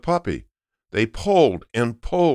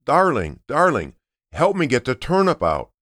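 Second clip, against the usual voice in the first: higher, lightly raised call for help; 4 semitones higher than usual. Acted. Grandpa calling his wife from the garden, mild call. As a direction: call across the farm, not full force. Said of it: "so he started to shout".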